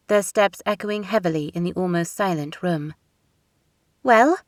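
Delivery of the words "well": louder, higher demand. A narrator's reading. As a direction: demand an answer at once. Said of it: "Elena demanded".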